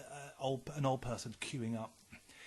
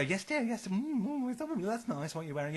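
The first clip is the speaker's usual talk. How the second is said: a high, vacant "yes dear" voice; mock a slow-witted elderly relative, pitched up; dim old person voice; 7 semitones higher, slower than usual. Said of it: "so when they go".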